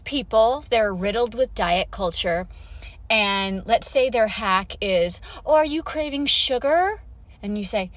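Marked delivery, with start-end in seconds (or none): 5.5-7.0 higher, lightly voiced busybody asking; mock-helpful question, pitched up; well-meaning adviser. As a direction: lightly play a concerned diet-culture friend. Voicing a well-meaning diet adviser.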